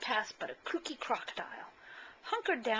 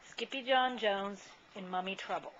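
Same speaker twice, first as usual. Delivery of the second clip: title announcement. Shown as a demonstration. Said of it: "without further ado, here is".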